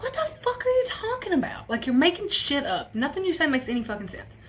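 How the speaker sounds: high, incredulous outburst; reliving the shock, voice jumping high; disbelieving cry at the news; shocked disbelief. Retold or imitated. Disbelief at death news on phone.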